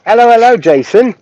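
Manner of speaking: bright excited livestream hello; excited greeting. Real, not acted. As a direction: greet a friend who just showed up. Greeting a chat viewer.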